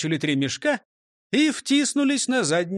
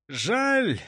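higher, drawn sigh of disappointment; sighing regret; 5 semitones higher than usual. Acted. Constable is refused magic lesson, mildly sighing. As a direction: sigh the word out, a touch let down. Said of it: "вздохнул полицейский".

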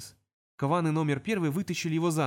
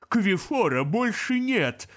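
slow, louder demon shout; 6 semitones higher, 5 dB louder, much slower than usual. Acted. Demon spitting at the imp, shouting. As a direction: bark it out. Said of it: "крикнул Аббат".

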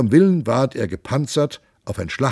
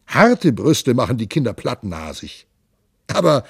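a lightly voiced boisterous monk, raised and lively; jovial monk; 3 semitones higher, 4 dB louder than usual. The monk boasts to his companions, hearty and raised. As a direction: play the hearty monk bragging about his nose.

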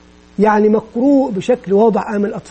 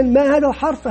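teacher asking a pupil; 3 semitones higher than usual. Shown as a demonstration. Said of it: "ثم يسأل فرديا".

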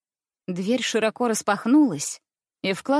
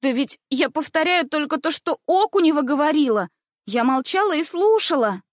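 cheeky schoolgirl; 5 semitones higher than usual. Acted. Schoolgirl protests innocence.

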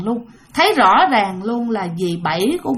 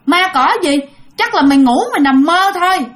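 father scolding; 3 semitones higher than usual. Retold or imitated. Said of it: "ông ba này nè mới la".

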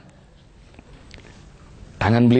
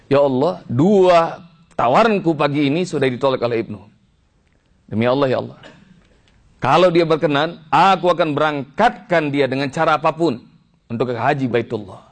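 fervent vow; 3 semitones higher than usual. Retold or imitated. Retold vow made to God.

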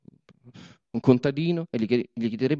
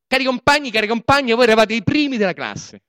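higher, louder mock praise of the comrades; mock-solemn address; 9 semitones higher, 7 dB louder than usual. Boss mockingly flattering the comrades, sarcastic loud praise. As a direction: hail them with fake admiration.

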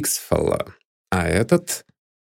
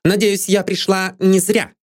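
higher, curt and sharp; 12 semitones higher than usual. A narrator's reading. Maid Anne challenges the detective sharply. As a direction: say it with a sharp edge. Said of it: "довольно резким голосом".

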